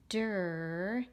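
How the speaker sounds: "Der" drawn out as one syllable; sounding out. Shown as a demonstration. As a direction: stretch "Der" slowly. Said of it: "I write by the syllable".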